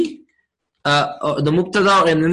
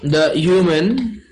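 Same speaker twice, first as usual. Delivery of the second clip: slow and deliberate; slower than usual. Shown as a demonstration. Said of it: "how do you translate al insan?".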